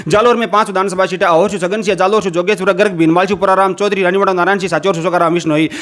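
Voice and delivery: rapid-fire list recitation; all in one breath. Shown as a demonstration. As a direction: rattle off the names nonstop. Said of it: "दो सौ साठ second के अंदर बता दिए हैं".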